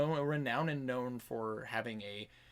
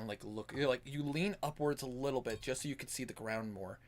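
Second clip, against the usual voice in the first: ordinary talk, nothing marked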